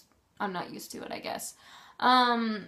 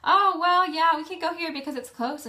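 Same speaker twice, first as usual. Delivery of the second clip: higher, louder voice for a quoted friend; mock friend, raised pitch and volume; imitating friend; 7 semitones higher, 6 dB louder than usual. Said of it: "and he's like".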